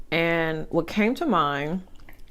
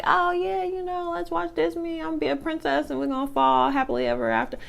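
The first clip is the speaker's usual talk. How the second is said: put-on girly princess voice; 12 semitones higher, 5 dB quieter than usual. Dreamy girl quoting Disney fantasy.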